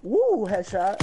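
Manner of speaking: high cheering whoop; excited. Real, not acted. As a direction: celebrate the kill. Celebrating a headshot.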